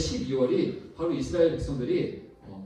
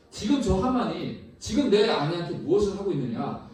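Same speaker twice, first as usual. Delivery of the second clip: raised, higher voice of an enraged king; angry king shouting; 5 semitones higher, 3 dB louder than usual. Retold or imitated. King catches Haman near his wife, crying out. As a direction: call out a mock-royal accusation. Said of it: "그렇게 외치면서".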